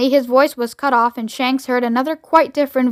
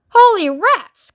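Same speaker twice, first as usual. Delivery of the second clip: high, loud, drawn-out exclamation; astonished cry; 8 semitones higher, 5 dB louder, slower than usual. A narrator's reading. Shanks seeing the strange craft, astonished cry. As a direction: cry out slowly in amazement. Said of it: "cried Shanks".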